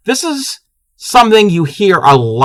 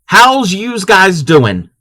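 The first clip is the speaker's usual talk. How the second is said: drawn-out Maryland accent, slow and higher; 4 semitones higher, much slower than usual. Shown as a demonstration. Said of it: "A lot of people in Maryland pronounce it yous".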